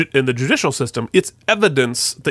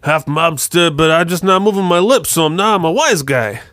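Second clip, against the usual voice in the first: mock Boston wise guy, lips barely moving; half Brooklyn, half mobster accent. Shown as a demonstration. Co-host demonstrating a TV wise-guy accent, hammed-up mobster. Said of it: "half Brooklyn, uh, half mobster".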